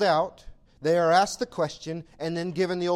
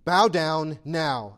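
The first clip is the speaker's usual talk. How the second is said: commanding demand; 3 dB louder, much slower than usual. Acted. Voicing the world's demands.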